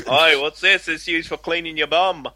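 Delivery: mock Australian accent; cheeky imitation Aussie accent; Paul Hogan. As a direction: quote the film in a put-on Australian voice. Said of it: "Paul Hogan does the best Australian accent".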